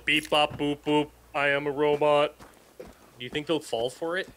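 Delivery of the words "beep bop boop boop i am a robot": lightly played robot voice; a mock robot voice, half-hearted. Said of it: "we'll go".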